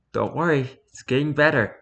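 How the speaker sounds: put-on softly spoken American accent; American-accented sleepy reassurance; heavy American accent. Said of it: "in a heavy American accent".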